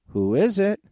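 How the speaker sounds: high, loud little pig; squeaky piggy voice. Acted. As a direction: squeal it like a startled piglet. Piggy answers the door.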